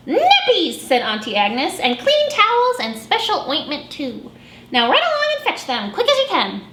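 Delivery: high, quick bossy aunt; bossy auntie. Acted. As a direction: shoo them off briskly. Auntie Agnes orders.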